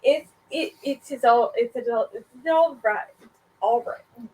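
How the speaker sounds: hammed-up vague German accent, giggling; a vampire boss in a made-up German accent; fake German accent. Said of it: "I love that he's German".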